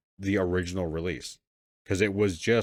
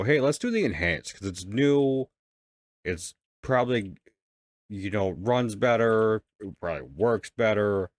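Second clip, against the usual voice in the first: mildly hammed-up pitch to oneself, higher; eager suggestion; 3 semitones higher, 3 dB louder than usual. Gamer mimicking own decision to play Enhanced, eager. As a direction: lightly imitate your own keen, naive suggestion.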